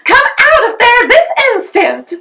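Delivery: put-on mother ordering her child out of the mud, high and loud; stern command. A narrator's reading.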